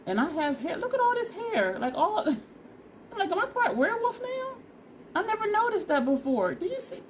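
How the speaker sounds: high, amused disbelief; excited. Real, not acted. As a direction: squeal over the hairline. Amazed at hair after haircut.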